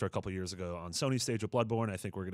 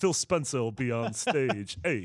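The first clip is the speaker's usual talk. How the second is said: loud, brash tough-guy voice, belted out; 4 semitones higher, 6 dB louder than usual. Guessing who will appear at the game show, Andrew Dice Clay impression. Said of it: "It's little Andrew Dice Clay".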